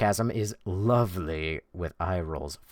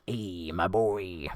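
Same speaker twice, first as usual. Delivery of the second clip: slow drawn voice; 4 dB quieter, much slower than usual. Pretend.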